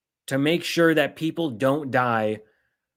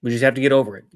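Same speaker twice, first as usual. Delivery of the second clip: dismissive mock quote, a touch louder; 4 semitones lower, 4 dB louder, much faster than usual. Vlogger mocking politicians shrugging off shootings, dismissive. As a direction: toss it off like it doesn't matter. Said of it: "that's how they say it".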